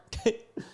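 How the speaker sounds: short, high chuckle; small real laugh; amused chuckle. Real, not acted. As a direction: laugh briefly at the anticlimax. Amused at the harmless selfie ending.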